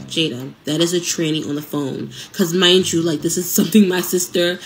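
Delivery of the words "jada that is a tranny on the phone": composed, slightly lowered retold statement; calm. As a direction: imitate a sister stating it calmly. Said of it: "My sister says it as calm as that".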